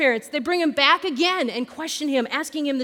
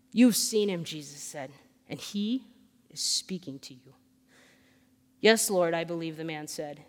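scripture reading; 5 semitones lower than usual. A narrator's reading. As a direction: read the passage aloud, hushing at the dialogue. Reads scripture aloud.

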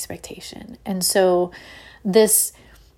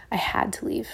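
whispered; 2 semitones higher, 5 dB quieter than usual. Real, not acted. Repeated quietly for weight.

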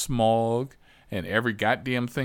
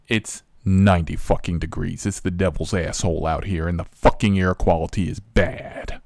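louder, angry rant about the heat; loud uncensored rant; 3 semitones lower, 5 dB louder than usual. Retold or imitated. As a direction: let the real version rip. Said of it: "But the P C version was".

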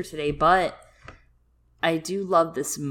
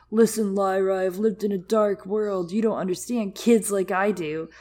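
mock brooding boy; 2 semitones higher than usual. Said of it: "moments where he's like".

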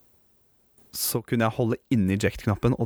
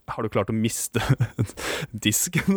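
laughing disbelief. Retold or imitated. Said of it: "jeg bare sånn".

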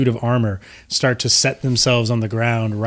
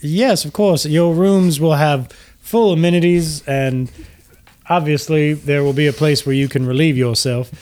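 genteel host gushing with gratitude; gracious Lucian Flametongue; 4 semitones higher than usual. Acted. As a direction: greet them with courtly, lilting flattery. Lucian describes the rooms.

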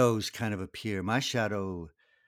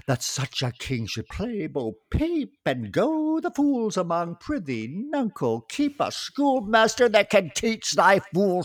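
the Fool, cheeky and singsong; stage reading; 4 semitones higher, 5 dB louder than usual. Acted. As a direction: play a mocking court jester. Reading the Fool's speech.

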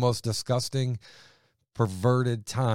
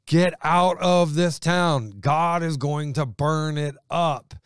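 raised, slowed, insistent warning; urgent angel command; 5 semitones higher, 4 dB louder, slower than usual. Acted. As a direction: command them out like an angel sounding alarm. Angels urging Lot to flee.

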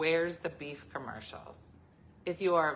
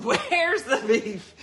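put-on slow, high, loud old lady croak; hammed-up old woman demanding her beef; 6 semitones higher, 9 dB louder, much slower than usual. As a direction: squawk it like a cranky old lady in a car. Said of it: "old ladies in a car just going".

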